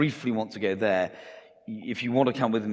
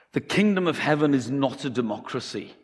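louder, higher Scottish pastor, laying down the law; Scottish accent; 4 semitones higher, 5 dB louder than usual. Acted. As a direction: put on a Scottish preacher's accent. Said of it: "Sorry for my Scottish accent".

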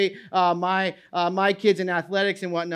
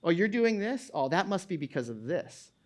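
mocking naysayer; 6 dB quieter than usual. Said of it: "naysayers are starting to redefine".

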